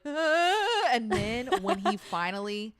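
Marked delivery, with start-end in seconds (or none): 0.1-0.9 high, loud mock "ah"; imitated nervous cry. Imitating a bungee jumper at the edge, mock cry. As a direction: mimic a man's cry before the jump. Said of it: "you can hear him where he's just like".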